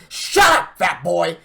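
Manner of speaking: high, loud taunting shout at a fan; imitating a wrestler screaming at a fan; mock yelling Flair. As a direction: bark it at a heckler from ringside. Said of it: "just like".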